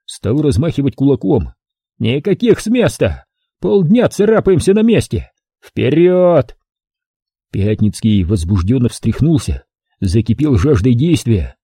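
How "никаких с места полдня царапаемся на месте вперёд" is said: высокий злой крик; рявкнуть в ярости; бешеный крик. A narrator's reading. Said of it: "ещё больше взбесила пехотного командира". (взбешённый крик)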